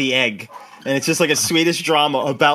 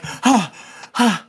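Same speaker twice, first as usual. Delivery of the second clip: angry yelling man; 8 semitones higher, slower than usual. Retold or imitated. Angry driver chasing egging kids.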